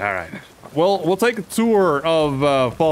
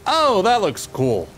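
higher, brighter slow delight; excited; 4 semitones higher, slower than usual. Shown as a demonstration. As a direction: say it with eager delight. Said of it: "Ooh, that looks cool".

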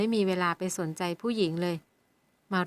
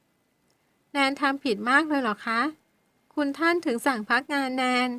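slow, higher, catching tearful question; broken halting voice; 5 semitones higher, slower than usual. Acted. Servant girl hurt by her suspension, broken tearful voice. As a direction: ask haltingly as if holding back tears. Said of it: "ถามเสียงขาดห้วง".

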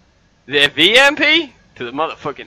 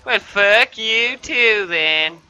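acting out opponent; 4 semitones higher, slower than usual. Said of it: "and goes".

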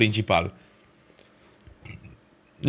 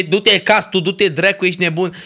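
raised, exasperated scolding; angry rant; 5 semitones higher than usual. Real, not acted. Streamer fuming to chat about the lineup, angry. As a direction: tell them off for the bad lineup.

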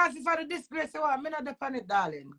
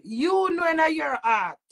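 angry shout; 3 semitones higher, 5 dB louder, slower than usual. Real, not acted. Angry rant at estranged lover.

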